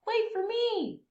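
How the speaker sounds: high, eager call; calling after. A narrator's reading. Beau chasing Harmony Jean, high eager call. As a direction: reach out after a friend racing off. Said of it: "Beau called".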